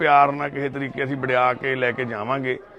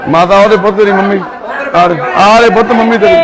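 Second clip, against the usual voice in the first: louder and higher, urging them not to fight; loud pleading; 6 semitones higher, 10 dB louder than usual. Real, not acted. Worker shouts at the young men not to fight, urgent and loud. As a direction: shout over the commotion to calm them. Breaking up a scuffle.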